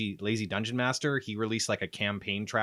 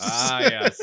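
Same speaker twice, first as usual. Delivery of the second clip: put-on old wizard voice; 13 semitones higher, 8 dB louder than usual. Shown as a demonstration. Wizard voice reply.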